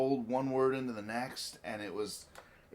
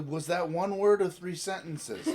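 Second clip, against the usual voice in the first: laughing disbelief; 7 semitones higher, 8 dB louder than usual. Retold or imitated. Retelling baffled by fast speech.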